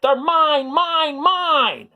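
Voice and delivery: very high, loud greedy cry; greedy yell. A narrator's reading. Minosaur grabbing the snacks, high and loud. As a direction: shriek it over the tarts.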